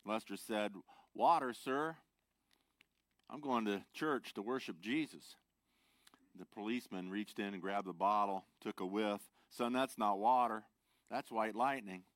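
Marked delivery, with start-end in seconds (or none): 1.1-5.4 loud, high, playing innocent; a hint of a fibbing drunk. Lester voiced answering policeman. 9.5-12.0 stern cop. Acted. Policeman voiced in joke.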